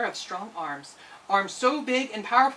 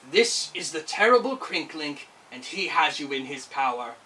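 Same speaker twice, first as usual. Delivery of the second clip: lower, odd sly whisperer; voice at her ear; 4 semitones lower than usual. Acted. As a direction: menace close to her ear. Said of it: "she heard a voice".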